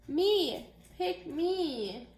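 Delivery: high, eager "Me!"; eager volunteering. Acted. Child volunteering to take the mice home, eager. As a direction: beg to be picked.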